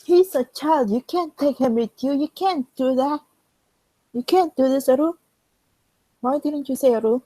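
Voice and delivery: high, loud, desperate protest; desperate yelling. Acted. China shouting at England not to take the child. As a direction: cry out to stop him.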